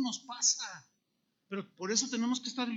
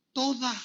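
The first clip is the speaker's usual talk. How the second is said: Toda said louder and higher, on its own; emphatic, raised Toda; stress on Toda; 4 semitones higher, 4 dB louder than usual. Shown as a demonstration. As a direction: punch Toda as the answer. Emphatic answer to own question.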